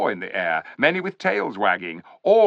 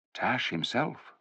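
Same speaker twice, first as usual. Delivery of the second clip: slow, soft hushed answer; whispered; 8 dB quieter, slower than usual. A narrator's reading. Tyrion whispering the dreaded name to Jill, soft and slow. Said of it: "whispered Tyrion".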